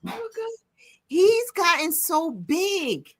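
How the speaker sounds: gushing. Real, not acted. Host seeing co-host's dog, gushing. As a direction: marvel slowly at a grown pet.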